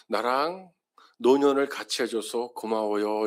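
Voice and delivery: sincere thank-you with the weight on 노년을; heartfelt thanks. Shown as a demonstration. Pastor modelling thanks to an elderly spouse, sincere. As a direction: lean into 노년을, gently grateful. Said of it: "이렇게 한번 인사해 보세요".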